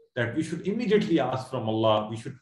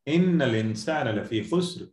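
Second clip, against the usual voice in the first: swift chanted Arabic verse; Quran recitation; much faster than usual. Shown as a demonstration.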